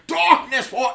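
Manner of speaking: high, loud cartoon villain cry; Skeletor villain voice. Gamer playing the bad guy, as Skeletor, loud and high. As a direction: cackle it like a gloating cartoon overlord. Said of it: "I turned into Skeletor playing that game".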